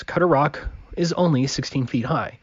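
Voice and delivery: ordinary talk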